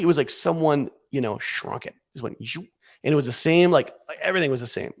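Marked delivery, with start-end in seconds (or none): 2.5-2.7 mock zoop sound effect; imitated shrinking sound. Storyteller showing a goat being shrunk, imitated zoop. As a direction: make a little shrinking noise.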